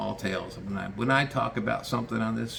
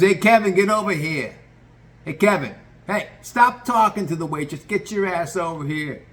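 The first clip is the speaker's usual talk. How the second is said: loud, much higher yell for Kevin; yelling orders; 8 semitones higher, 7 dB louder than usual. Retold or imitated. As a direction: shout him over, bossy.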